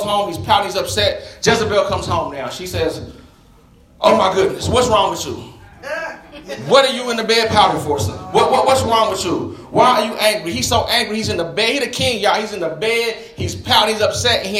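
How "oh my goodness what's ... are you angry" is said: mock-exasperated wife, punching the questions; exasperated scolding. Wife finds the king pouting in bed, exasperated scolding. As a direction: scold him in disbelief.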